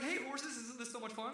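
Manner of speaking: high-pitched happy dog voice; gleeful dog. Acted. Dog talking to the horses, gleeful. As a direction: voice a dog having the time of his life. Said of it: "he's having the time of his life".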